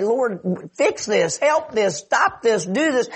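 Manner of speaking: high, insistent list of demands; urgent pleading. Acted. Preacher voices believers' prayer to the Lord, urgent pleading. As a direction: beg in short mounting requests, acted.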